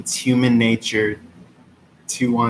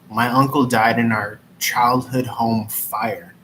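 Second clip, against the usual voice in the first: solemn, serious reading; straight-faced reading. Acted. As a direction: hold it together, sincere. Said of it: "keeping a straight face".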